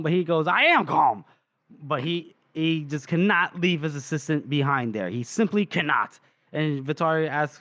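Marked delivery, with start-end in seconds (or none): 0.5-1.2 insistent, not-so-calm protest, lightly acted; agitated denial. Told to calm down while freaking out, agitated denial. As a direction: insist on it with a punched swoop in the voice. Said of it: "telling him to calm down".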